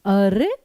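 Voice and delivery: "अरे" leaned on, then a slight pause; stress on अरे. Shown as a demonstration. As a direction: put all the focus on "अरे". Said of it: "उस चीज पे focus करना". ("अरे" पर बलाघात, ज़ोर देकर)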